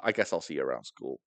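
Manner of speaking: low, soft imitated dismissal; retold brush-off. Girl ending it with the boy, low soft brush-off. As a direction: drop it low and quiet, closing the matter.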